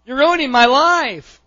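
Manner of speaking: put-on loud, high, overdramatic child's outburst; imitating whiny kids. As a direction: wail it like an aggrieved kid, hammed-up. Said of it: "you ever have kids go".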